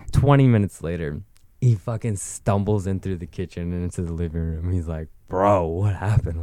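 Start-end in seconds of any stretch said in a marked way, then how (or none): 5.3-6.4 slow, lightly slurred imitation; drunk friend. Drunk friend stumbles into living room, slow confused slur.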